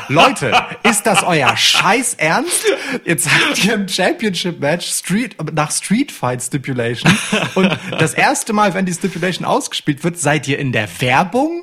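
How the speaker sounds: slow, loud laughing disbelief; outraged but laughing; exasperated disbelief. Retold or imitated. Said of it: "und man ist so".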